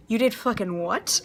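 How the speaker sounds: shocked mom. Retold or imitated. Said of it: "I have never heard a change of tone".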